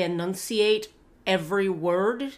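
"enunciate every word" said with each word carefully separated; over-enunciate "enunciate every word"; crisply articulated "enunciate every word", demonstrating nerd speech; precise nerd accent. Shown as a demonstration. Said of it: "very precise nerd accent".

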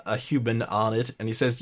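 ordinary talk

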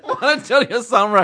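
Juan Antonio Samurai impression. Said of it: "one of my favorite impressions of yours".

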